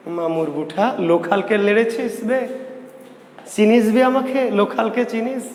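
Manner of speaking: lightly voiced street tough, pitch climbing; local tough. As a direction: challenge them like a mock neighbourhood thug. Acts out a local tough's challenge.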